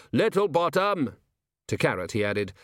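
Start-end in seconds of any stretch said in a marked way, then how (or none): 0.1-1.2 high, drawn-out call down a corridor; yelled summons. A narrator's reading. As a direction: call out the name to someone out of sight. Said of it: "poked his head out into the corridor and yelled".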